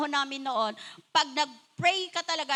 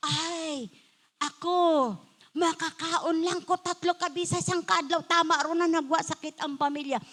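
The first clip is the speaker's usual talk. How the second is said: mock contented folk. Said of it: "Kaya lagi sila sabi".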